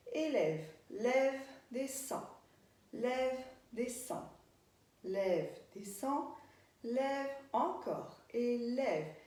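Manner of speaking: slow, measured movement cues; dance-class cueing. Shown as a demonstration. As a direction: call each move on the beat, leaving gaps. Calls movement cues in rhythm.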